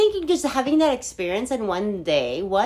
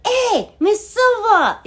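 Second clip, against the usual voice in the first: loud, higher-pitched excited hail; calling out greeting; 10 semitones higher, 5 dB louder, slower than usual. Retold or imitated. Grown-up former student hails old teacher, calling out. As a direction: imitate a former student calling out across distance.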